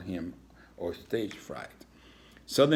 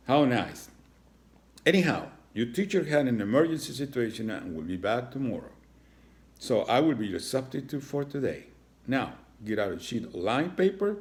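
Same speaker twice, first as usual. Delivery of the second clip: higher, loud bossy principal; a strict substitute teacher; 4 semitones higher, 3 dB louder than usual. Acted. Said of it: "Principal Horn instructed".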